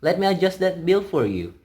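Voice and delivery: lightly put-on Canadian call-center accent; a hint of a polite Canadian phone agent; mildly imitated Canadian customer-service voice. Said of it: "They're trained to speak in a Canadian accent".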